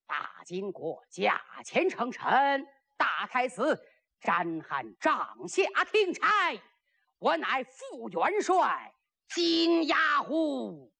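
slow, stretched-out titles; stately warlord declaring his rank; pompous self-introduction. Acted. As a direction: announce yourself grandly, drawing out the name. General announces his titles.

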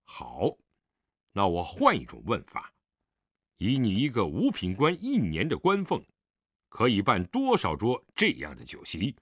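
restrained, stern father; suppressed anger. Acted. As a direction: hold the anger down as you question him. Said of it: "狄仁杰强压怒火又道".

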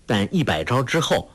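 ordinary delivery

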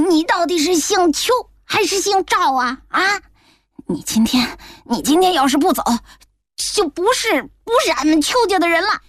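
put-on indignant old woman demanding an answer; angry grandmother. A narrator's reading. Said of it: "气冲冲地在诊室的门口喊".

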